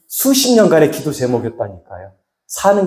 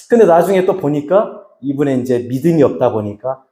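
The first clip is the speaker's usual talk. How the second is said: ordinary delivery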